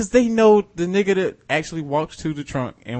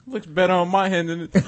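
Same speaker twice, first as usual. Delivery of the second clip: hammed-up Russian accent through laughter; bad Russian accent; 4 dB quieter than usual. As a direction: do a clumsy comic Russian accent. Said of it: "That's a terrible Russian accent".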